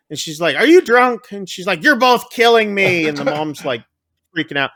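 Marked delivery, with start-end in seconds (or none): 0.6-1.3 high, loud incredulous accusation; mock appalled question. Mom to drunk daughter on phone, mock appalled. Mom's shocked question, retold. 1.8-3.1 raised-pitch imitated parental complaint; mock exasperation. Mom freaking out at her daughter, mock exasperated.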